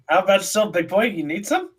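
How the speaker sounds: high, tipsy offer of a drink; acting drunk. Drinker offering the guard a drink, acting drunk. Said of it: "I've been acting drunk".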